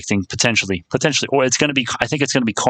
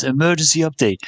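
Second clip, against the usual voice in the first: lightly imitated German or Russian accent, pitched up; a higher-voiced go at a German-Russian accent; mock German or Russian accent; 5 semitones higher than usual. Streamer quoting someone's catchphrase, mock German or Russian accent. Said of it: "in that German accent or Russian accent".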